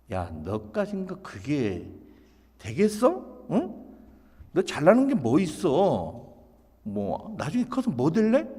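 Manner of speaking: belittling mom, pointed questions; dismissive nagging. Acted. Mom doubting her child will amount to anything, dismissive. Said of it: "두 번째는 무시하는 엄마의 잔소리입니다".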